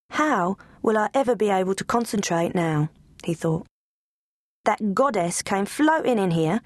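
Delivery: lightly voiced dreamy scruffy dog; lovestruck dog. Bones in his corner, lovestruck and dreamy. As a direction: moon over the goddess.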